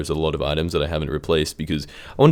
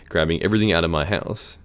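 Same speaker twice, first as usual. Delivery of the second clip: voice crack. Real, not acted. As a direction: voice cracks mid-phrase. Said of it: "crazy voice crack".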